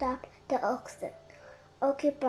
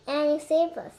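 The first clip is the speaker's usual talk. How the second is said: excited; 3 semitones higher, 6 dB louder than usual. Acted. Excited report to Queen.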